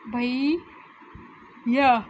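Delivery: भैया drawn out slowly, each part held; slow sounding out. Shown as a demonstration. Teacher demonstrating half-reading slowly to kids. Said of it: "यहाँ पर मैंने इसको आधा पढ़ा".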